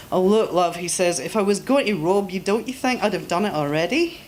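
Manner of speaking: lightly voiced Scot, easy and reasonable; a hint of a Scot reassuring her; reassuring Scottish man.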